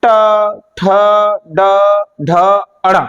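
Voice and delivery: ट ठ ड ढ said with the tongue curled back; teacher drilling letters; retroflex consonants. Shown as a demonstration. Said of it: "तो एक बार ट बोल के देखना".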